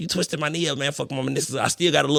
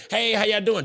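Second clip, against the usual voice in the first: imitating his greeting; 7 semitones higher than usual. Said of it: "can't just keep a straight face".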